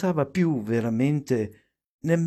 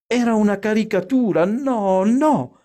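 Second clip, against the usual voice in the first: fast, high, rising to a loud no; agitated refusal, climbing in pitch and volume; mortified protest; 8 semitones higher, 5 dB louder than usual. A narrator's reading. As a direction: rush it out in embarrassed alarm, high-pitched. Ashamed mother protests behind door.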